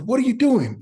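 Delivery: high, loud barked question; retold yell. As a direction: yell at the rookie who messed up. Teammate yelling at rookie.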